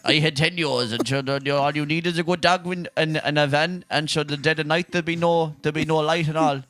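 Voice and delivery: a lighter Kerry brogue, casually done; rambling Kerry country man; Kerry neighbour accent. Retold or imitated. The neighbour from the RTE show, mild Kerry accent. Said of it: "He said".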